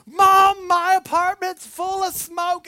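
high, loud panicked cry into the phone; panicked call. Retold or imitated. Calling his mother from the smoke-filled apartment, panicked. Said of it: "I call her and I'm like".

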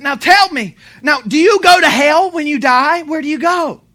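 loud, high, insistent retold questioning; pressing questions. Retells pressing the Satanist with questions.

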